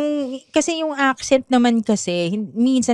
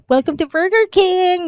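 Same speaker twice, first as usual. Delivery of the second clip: affected greeting; 8 semitones higher than usual. Retold or imitated. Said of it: "Yung arte-arte".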